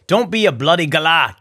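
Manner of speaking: hammed-up Australian accent with slang; mock Australian accent. Urging viewers to buy tickets in a mock Australian accent. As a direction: play a cheeky Aussie. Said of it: "apologies if I butchered any Aussie slang".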